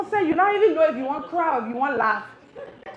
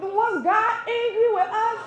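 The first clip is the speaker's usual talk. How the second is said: laughing cry; 5 semitones higher, slower than usual. Real, not acted. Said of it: "I'm like".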